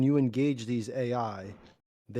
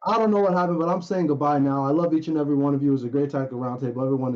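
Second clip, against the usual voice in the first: inside a fishbowl; 3 semitones higher, 9 dB louder, faster than usual. Real, not acted. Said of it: "you still sound the same".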